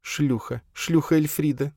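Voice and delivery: high, hushed sneer; bitter self-mockery. A narrator's reading. Elfrida to Flapping Eagle, bitterly mocking herself. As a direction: savour the word with bitter irony.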